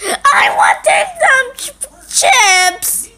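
put-on crying kid wails for chips; little kid demanding snacks, wailing; whiny kid tantrum. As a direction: throw a crying fit.

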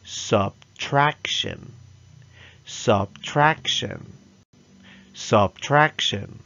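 Subtraction said slowly, each syllable clear; modelled for repeating. Shown as a demonstration. Teacher giving the class a word to repeat. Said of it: "Repeat after me".

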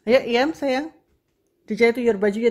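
high, loud, affectionate summons; loud wake-up call. Real, not acted. Mother calling sayang to get up, loud wake-up call. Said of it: "Biar bangun".

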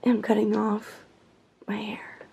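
hushed confession. Real, not acted. To her camera at dawn, a hushed whisper. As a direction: drop to a whisper on my hair.

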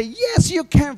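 high, loud motivational shout. Shown as a demonstration. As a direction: shout it out to rouse a crowd. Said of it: "I need to raise up my voice".

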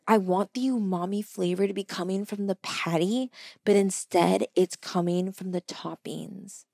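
a hint of a smug foodie; pompous food critic. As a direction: lecture the waitress like a mock gourmet. Strangers lecture the waitress on umami.

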